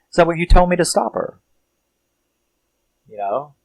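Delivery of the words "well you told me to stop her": innocent robot reply. Retold or imitated. Robot answers its owner.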